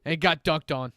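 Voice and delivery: lightly voiced mall Santa, a bit scratchy. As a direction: play a grumpy smoker Santa, only slightly put on. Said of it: "It's a very scratchy voice Santa".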